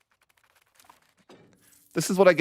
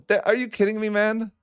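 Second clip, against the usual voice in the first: high, squeaky disbelieving whine; disbelief; 9 semitones higher than usual. Real, not acted. Streamer whining at her game's cruel twist, high and disbelieving. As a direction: shriek it out in shocked outrage. Streamer outraged at game event.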